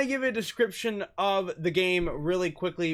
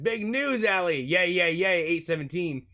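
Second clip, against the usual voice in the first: excited friend; 3 semitones higher than usual. Acted. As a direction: squeal the good news. Friend's excited text voiced.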